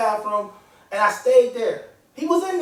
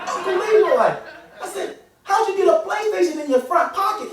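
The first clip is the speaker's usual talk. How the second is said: higher-pitched incredulous nephew; baffled kid; 5 semitones higher than usual. Acted. Nephew questioning Uncle Leroy about the PlayStation, baffled. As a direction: question him in a raised, amazed boy's voice.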